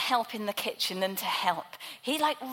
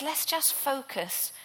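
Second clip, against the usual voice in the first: kindly; 2 semitones higher, 3 dB quieter than usual. Acted. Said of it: "he goes to her so kindly".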